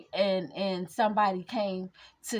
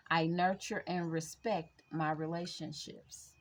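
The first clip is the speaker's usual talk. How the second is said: heart chakra affirmations. Acted. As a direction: read each affirmation like a gentle mantra.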